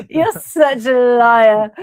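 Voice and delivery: slow, loud, laughing "you're such a liar"; laughing tease. Real, not acted. Teasing her co-host through laughter, loud and slow.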